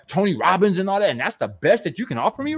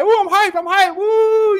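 very high, loud hyped-up squeal; cartoonish excited cheering; mock hype; 13 semitones higher, 5 dB louder, slower than usual. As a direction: imitate a pumped seminar goer. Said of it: "Oh, man, you like".

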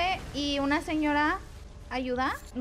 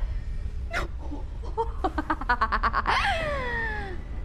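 excited nervous laughter. Real, not acted. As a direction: laugh in quick pulses, ending in a squeal. Fight ending.

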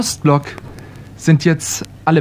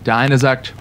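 usual speaking voice

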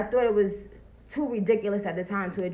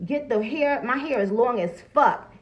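ordinary talk, nothing marked

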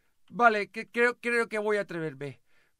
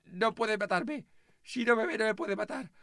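usual speaking voice

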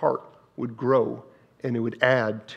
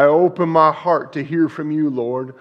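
fervent prayer; 3 semitones higher, 7 dB louder than usual. Shown as a demonstration. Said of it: "preacher models prayer".

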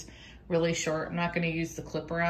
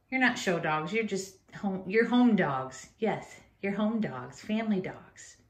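reassuring dogs; 3 dB quieter than usual. Real, not acted. Reassuring dogs, slower, softer.

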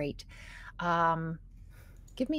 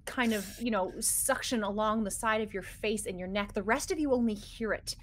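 game master scene-setting. Acted. Game master describes tentacle attack.

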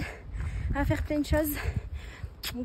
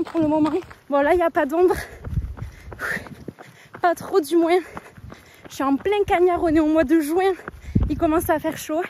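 while running. Real, not acted. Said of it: "parler en courant".

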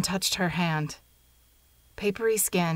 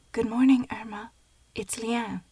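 raised, higher wake-up call; 5 semitones higher than usual. A narrator's reading. Louder second greeting to sleeper.

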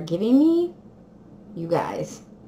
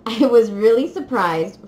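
laughing, louder; 7 dB louder than usual. Real, not acted.

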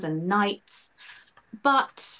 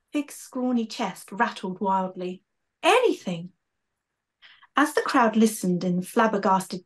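lively storybook narration with character voices; story reading; 2 semitones higher than usual. A narrator's reading. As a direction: read it like a children's author bringing it to life. Author reads her book aloud.

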